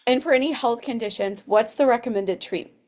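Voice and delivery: talking through hiccups; breaking off on a hiccup. Real, not acted. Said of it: "Sorry, I have hiccups".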